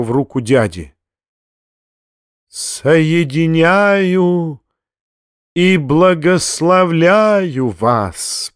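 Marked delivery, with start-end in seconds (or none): 2.5-8.5 slow, drawn-out solemn blessing; most solemn voice. Acted. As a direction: bless them like a priest, very slowly. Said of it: "самым торжественным голосом". (торжественно и медленно)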